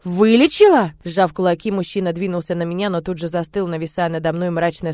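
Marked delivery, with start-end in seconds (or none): 0.0-0.9 angry challenge. Acted.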